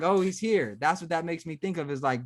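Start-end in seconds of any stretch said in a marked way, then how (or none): 0.0-0.8 higher mock-surprised reveal; mock peekaboo discovery. Host imagines peekaboo with an adult, mock-surprised discovery. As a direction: lightly act out finding someone in peekaboo. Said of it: "And then it's like".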